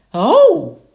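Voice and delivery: high, loud grateful mum; Mummy Sheep voice. A narrator's reading. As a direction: thank them like a relieved mum. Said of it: "said Mummy Sheep".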